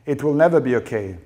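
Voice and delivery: loud, insistent furious shouting; outraged wife shouting; angry shout. A narrator's reading. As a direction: shout each sentence as a flat refusal to forgive. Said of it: "Rachel shouted".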